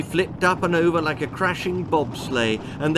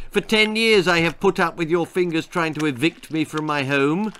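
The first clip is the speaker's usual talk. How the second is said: indignant bogeyman; 3 semitones higher than usual. Acted. Bogeyman complains to Dee.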